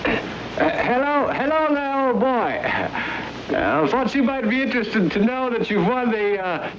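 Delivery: high, hearty stage-Irish official; stage Irish announcer. Pretend. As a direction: put on a jolly Irish brogue. Fake sweepstakes official phones Topper.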